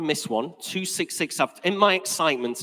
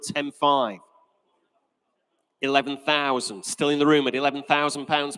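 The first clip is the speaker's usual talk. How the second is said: steady rhythmic auction patter, stating each figure; auctioneer's bid calling. Acted. Auctioneer calling bids to the room and internet, brisk patter. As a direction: run the bidding like a practiced auctioneer.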